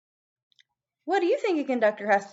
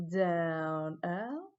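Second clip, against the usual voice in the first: slow guided counting; 2 semitones lower, 3 dB quieter, much slower than usual. Shown as a demonstration. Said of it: "Ready? Here we go".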